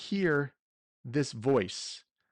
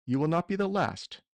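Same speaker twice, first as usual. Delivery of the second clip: villain monologue; 2 semitones lower than usual. Acted. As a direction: gloat over the heroes like a villain. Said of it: "I'm gonna give a small villain monologue here".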